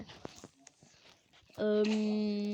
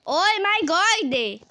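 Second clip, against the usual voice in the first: drawn-out oh my God; 7 semitones higher, 7 dB louder, much slower than usual. Shown as a demonstration. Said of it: "repeats slowed down".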